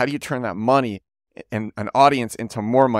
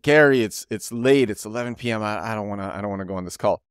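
Mister Beast; 3 semitones lower, faster than usual. Retold or imitated. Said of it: "Mister Beast is like".

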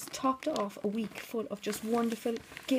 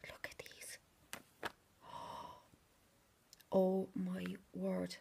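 awed whisper. Real, not acted. Opening parcel, hushed wonder.

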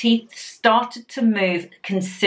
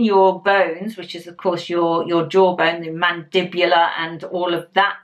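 stretched mouth speech; lips pulled by fingers; 3 semitones lower than usual. Real, not acted. Seen 0: Fingertips at mouth corners pulling and pressing lips while speaking.

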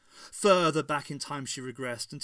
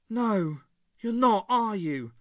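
bitter retort; 8 semitones higher, 9 dB louder, slower than usual. A narrator's reading.

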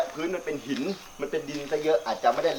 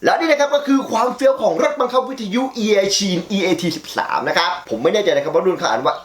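louder, upbeat sponsor pitch; energetic presenter plug; ad read; 5 dB louder than usual. Acted. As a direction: sell it like a hyped product spot.

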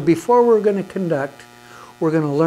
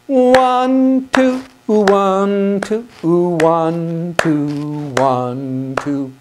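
counting loud; much slower than usual. Shown as a demonstration. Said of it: "now, clap really hard".

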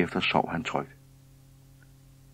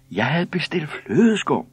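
high, slow, loud protest; shrieked complaint; 10 semitones higher, 5 dB louder, slower than usual. A narrator's reading. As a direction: shriek it as an outraged customer. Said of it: "skreg den ene".

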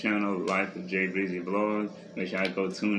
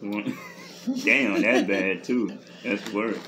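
talking while chewing; 3 dB louder, slower than usual. Real, not acted. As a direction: mouth partly full. Seen 0: man puts chip in mouth, hand at mouth while talking.

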